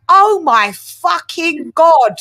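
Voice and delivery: slow, drawn-out shocked cry; stunned exclamation. Retold or imitated. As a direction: gasp it out in disbelief. Retold reaction to the impression.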